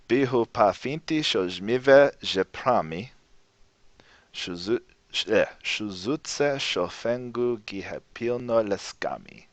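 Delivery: slow, soft, careful Lojban reading. Shown as a demonstration. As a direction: read the poem slowly, word by word. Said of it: "I'll read it slowly".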